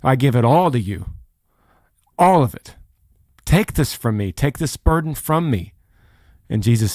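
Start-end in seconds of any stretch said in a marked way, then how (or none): 0.0-5.7 emphatic acted plea to be relieved; imitated surrendering plea. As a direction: act out handing it all over. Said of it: "in a posture of".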